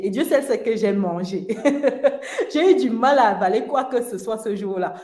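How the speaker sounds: words broken by a real laugh; laughing while telling. Real, not acted. To listeners, remembering eating anyway, laughing through it. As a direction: laughs at herself recalling the meal.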